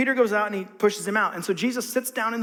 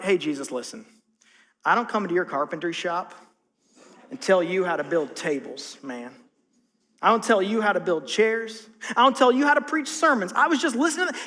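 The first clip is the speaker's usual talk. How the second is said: defensive Peter; 4 semitones lower than usual. Retold or imitated. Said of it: "If I'm Peter, I'm like".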